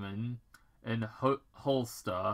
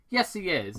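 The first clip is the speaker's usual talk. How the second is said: Agent Stone; 7 semitones higher, 5 dB louder than usual. Acted. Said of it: "Agent Stone replied".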